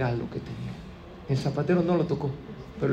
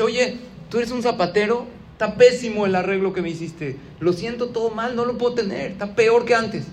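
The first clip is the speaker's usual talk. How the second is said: raised, higher voice of a fed-up customer; annoyed complaint; 6 semitones higher than usual. Acted. Customer scolds the shoemaker over the bad repair, annoyed and raised.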